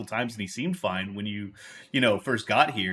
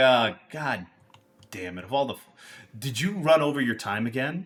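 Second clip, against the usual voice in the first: contemptuous, irritated, scornful sneering outburst. A tall man nearly bumps into you on the way out, sneering. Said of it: "he kind of like sneers at you".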